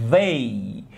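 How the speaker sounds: They with a voiced th, tongue on teeth; they, not vey or zei; correct they. Shown as a demonstration. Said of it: "Aí você vai ter que dizer".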